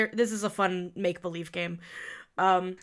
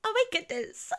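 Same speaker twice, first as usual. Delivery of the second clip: put-on giggly girl; 9 semitones higher, 3 dB quieter than usual. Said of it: "she's giggling, and she's like".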